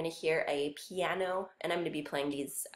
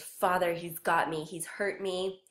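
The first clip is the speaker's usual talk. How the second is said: frightened cry; 3 dB louder than usual. Acted. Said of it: "the son says".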